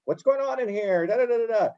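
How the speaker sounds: a teacher's half-hearted mock shout at the class. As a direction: pretend to raise your voice at a wild classroom. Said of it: "instead of me having to raise my voice".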